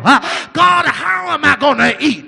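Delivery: complaining disciples. Retold or imitated. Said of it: "the people were complaining and saying".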